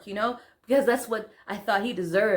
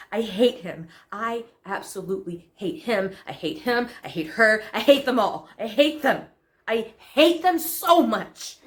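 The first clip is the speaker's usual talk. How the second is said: odio crescente. Acted. Monologue, escalating hate rant.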